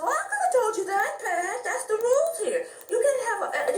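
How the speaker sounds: high, laughing-crying neighbor voice; high, tearful-sounding laugh as the neighbor; neighbor's voice. Retold or imitated. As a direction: play the neighbor, laughing through it. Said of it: "She said".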